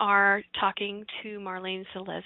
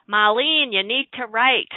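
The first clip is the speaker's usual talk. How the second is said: calling out; 3 semitones higher, 9 dB louder than usual. Retold or imitated. Messages calling to Marlene.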